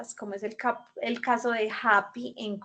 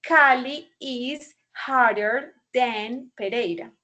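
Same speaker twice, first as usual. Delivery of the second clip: slow model sentence; 4 dB louder, slower than usual. Shown as a demonstration. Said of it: "puedo decir que".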